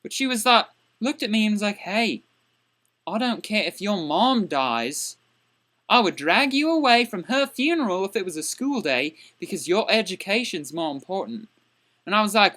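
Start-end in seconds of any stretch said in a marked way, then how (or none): 1.8-11.5 low, mildly menacing teacher voice; cold teacher. Retold or imitated. Teacher scolding student after mother's dog died, cold and low. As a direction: voice a heartless teacher, pitched down a touch. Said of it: "looked at me with this evil glare".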